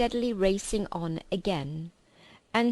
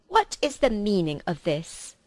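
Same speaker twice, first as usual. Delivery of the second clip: a louder, imperious queen; cold witch queen demanding; 4 dB louder than usual. Acted. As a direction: demand an answer from the feast.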